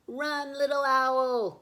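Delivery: high, loud, slow warning shout; urgent cry. Acted. Hidden animals cry out to Little Owl, urgent. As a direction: shout for him to flee. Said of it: "cried the animals".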